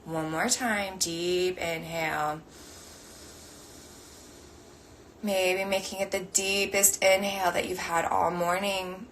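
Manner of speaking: slow guiding voice with long pauses; guided meditation. Acted. Meditation teacher guiding the group's breathing, slow and measured. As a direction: lead them gently through each breath.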